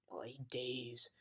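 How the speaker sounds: low, breathy worn-out whisper; exhausted. A narrator's reading. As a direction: sigh it out, spent. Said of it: "said the exhausted dog".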